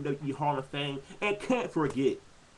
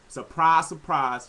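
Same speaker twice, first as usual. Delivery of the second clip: sarcastic surprise; 6 dB louder, slower than usual. Real, not acted. Sarcastic remark on expected gimmick.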